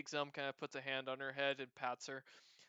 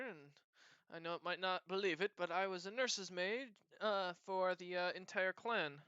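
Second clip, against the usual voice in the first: put-on cat-girl voice; 3 semitones higher than usual. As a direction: tell it eagerly like a chatty cat-girl. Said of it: "she looks at you and says".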